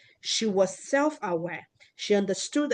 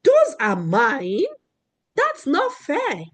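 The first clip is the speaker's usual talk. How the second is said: put-on upset child; 4 semitones higher, 3 dB louder, slower than usual. Girl upset over her markers.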